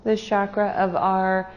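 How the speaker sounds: unhurried meditation guide with long pauses; guided meditation. Real, not acted. Meditation leader guiding a group to their breath, calm and unhurried. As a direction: lead them gently inward, pausing between phrases.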